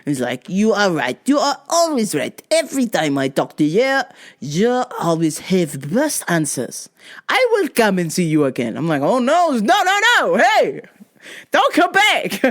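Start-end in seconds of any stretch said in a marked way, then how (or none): 0.5-8.8 lightly voiced grateful customer; mock earnest praise; Pierre Escargot. 9.0-12.4 high, comic protest breaking into laughter; playful pleading, pitch leaping up; mock panicked refusal.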